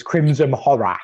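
drawn-out, slightly Cockney twang; playful touch of Cockney; slight Cockney accent. Acted. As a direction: put on a light Cockney accent. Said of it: "doing a slightly Cockney accent there".

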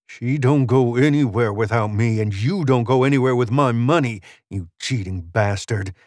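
growing cowboy indignation; angry gambler Spence. Acted. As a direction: assert your claim, furious and possessive.

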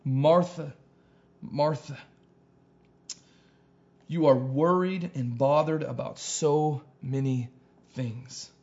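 gentle, caring address with long pauses; loving voice. Acted. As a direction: say her name tenderly, letting each one settle. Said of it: "hear the love in his voice for her".

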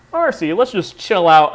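slow, put-on nonchalant delivery; mock nonchalance. Telling mother-in-law to relax, mock nonchalant. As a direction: draw it out as an act of not caring. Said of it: "the most nonchalant ass fucking act".

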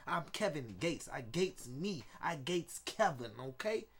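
a light take on a rapper, cocky and rambling; rapper impression. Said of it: "How was my rapper impression"

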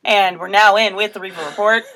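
loud, playful news-anchor intro; mock newscaster. Host opening her report after the beeps, mock newscaster. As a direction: announce it like a newscast segment.

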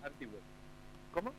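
faint, distant phone line; phone held away. Real, not acted. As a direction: far from the phone mic. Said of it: "su señal sale muy débil".

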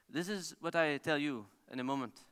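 lightly imitated French accent. French rally champion advising an amateur driver, light French accent. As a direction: quote him in a wee French accent. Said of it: "in his wee French accent".

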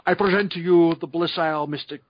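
lightly imitated film-star submarine captain; a hint of a movie captain's impression; Sean Connery. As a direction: announce it grandly in a mock actor's accent. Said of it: "he's in full Connery mode".

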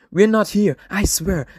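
high, loud protesting voice; over-eager denial. Acted. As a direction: insist a little too hard. Billboard caption read with emphasis.

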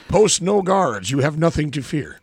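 lightly voiced carefree officer; mock commander. Mocking the commander's false assurances.

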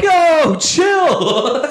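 high, squeaky alarmed plea; a scared comic calming a drunk; mock panicked self. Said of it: "And I was like".

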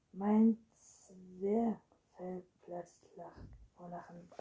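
slow, loud start, then dropping away; acted breathless exclamation; gasping for air. A narrator's reading. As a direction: wheeze it out as if winded by laughter. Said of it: "schnappte nach Luft".

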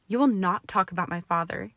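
loud enraged shout. Acted. Draco defending his father against Hermione, enraged shout. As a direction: roar it at her in fury. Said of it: "he shouted".

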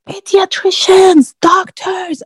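high, loud urgent call; retold scream. Doctor pulls baby out, screams for the team. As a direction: call out for help, drawn out and high. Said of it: "and just screams".

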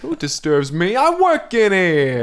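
slow, loud, booming dragon. Acted. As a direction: roar it like an angry dragon. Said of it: "and she says".

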